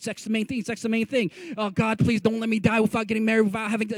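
a hint of a desperate prayer; mock pleading. Mocking what people say, mildly pleading. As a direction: mimic culture's frantic plea. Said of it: "we say crazy stuff".

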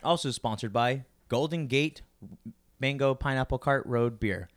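mock commercial pitch; ad read voice. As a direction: sell it like a radio ad. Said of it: "What the fuck? Okay, stop".

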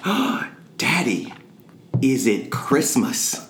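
put-on high, slow, wondering child; little child voice. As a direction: play a five-year-old asking. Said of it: "And he said".

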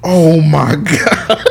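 breathless whisper. Real, not acted. Spent from laughing.

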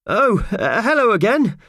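high, hesitant attempt at a friendly greeting; forced friendliness. A narrator's reading. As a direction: try to sound friendly when caught out. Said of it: "trying to sound friendly".

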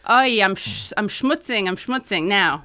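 mild put-on Jewish New York accent; lightly imitating a kvetching Jewish woman; Yiddish-inflected impression. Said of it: "in his impeccable impersonation, as if he were me".

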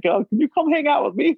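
high-pitched imitation of a child asking; lightly mocked childish plea; pleading kid. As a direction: put on a hopeful kid's voice. Voices kid returning to parent.

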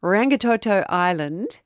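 Rangitoto Island said slowly, syllable by syllable; careful pronunciation. Shown as a demonstration. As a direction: sound out Rangitoto Island with care. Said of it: "I'm gonna have a go at it".

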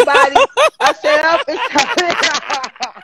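mock holler to round everyone up; calling out. Retelling herding friends out of the room, hollered.

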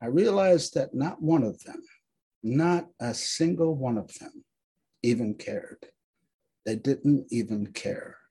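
measured, solemn recitation; dramatic reading. Acted. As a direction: read it like a memorial poem.

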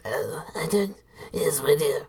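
soft whispered demon tongue; infernal whisper. Acted. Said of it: "switch to Infernal".

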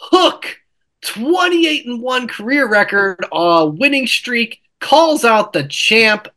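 high, mocking read of the tweet; mock Tony Khan tweet. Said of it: "and he puts".

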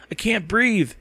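high-pitched, stifled protest; cried complaint. A narrator's reading. Girl chokes on mothball smell, high complaining cry. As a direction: push the pitch up in distress. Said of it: "she cried".

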